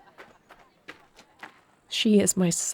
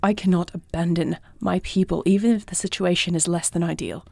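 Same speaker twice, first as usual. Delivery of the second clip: heated argument. Acted. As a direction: push back firmly against a protective partner. Acted quarrel over going to meet.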